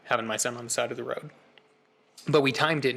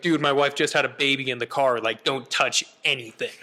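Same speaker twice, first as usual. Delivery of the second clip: retold urgent plea, a bit louder; frantic; 4 dB louder than usual. New father to valet at hospital, frantic. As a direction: urgently wave him off, voice pushed up.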